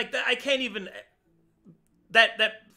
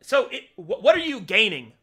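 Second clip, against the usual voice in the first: angry rant; 4 dB louder than usual. Real, not acted. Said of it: "I'm so pissed".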